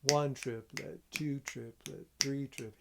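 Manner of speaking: counting triplets aloud in rhythm. Shown as a demonstration. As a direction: count each beat, stress the number. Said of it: "Let me show you what I mean".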